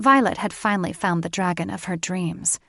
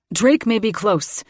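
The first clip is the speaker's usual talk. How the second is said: male voice; 3 semitones higher, 6 dB louder than usual. A narrator's reading. Layden warns.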